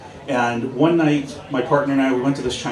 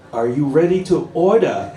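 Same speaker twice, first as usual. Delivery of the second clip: put-on Chinese accent; 3 semitones higher, 4 dB louder than usual. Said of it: "just through his thick accent".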